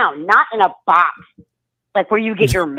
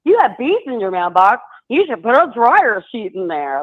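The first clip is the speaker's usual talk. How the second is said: lightly imitated bossy advice; a touch of bossy-pants instruction. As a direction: hand out advice like a know-it-all, mildly. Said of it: "I got all bossy and was like".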